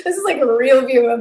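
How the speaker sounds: laughing through tears; embarrassed giggle while getting emotional; half laughing, half choked up; teary laugh. Real, not acted. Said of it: "Why am I teary?".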